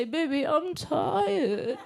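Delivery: put-on stretched-out, whiny baby voice; slow baby talk. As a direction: drag it out like a sleepy toddler. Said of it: "what happens is you say".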